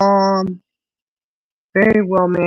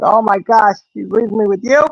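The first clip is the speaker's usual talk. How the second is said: higher, cheeky mock-outraged dog; dog's dismayed voice; 5 semitones higher than usual. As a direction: tease grandma in the dog's voice, half laughing. Dog voiced, complaining about grandma.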